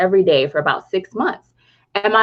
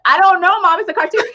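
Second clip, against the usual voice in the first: put-on whiny kid; 8 semitones higher, 4 dB louder than usual. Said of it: "We're like".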